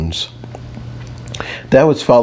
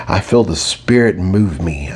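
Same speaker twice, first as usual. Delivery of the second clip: a hint of a solemn mystic, lightly voiced; mystical; 2 semitones lower than usual. Narrator teasing her analytical side with a mild mystical intoning. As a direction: intone it like a half-joking seer. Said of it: "I said mystically".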